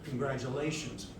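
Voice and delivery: lightly voiced, low game machine; game screen announcement. Game screen congratulating the player, low announcement. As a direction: read it out low like an on-screen message. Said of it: "on the screen it says".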